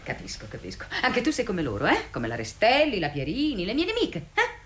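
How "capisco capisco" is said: sulky mutter. Acted. Sulking aside after a refusal.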